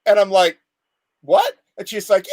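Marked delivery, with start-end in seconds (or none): 1.2-1.5 a very high, stunned "what"; shocked. Retold or imitated. Patient told where the shot goes, high shocked yelp. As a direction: yelp of disbelief. Told to drop his pants.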